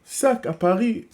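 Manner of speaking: a touch of mock American gush; lightly hammed-up impression of a shopper; mocking her. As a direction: parrot her with a mild excited squeal. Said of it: "Elle vient de dire que".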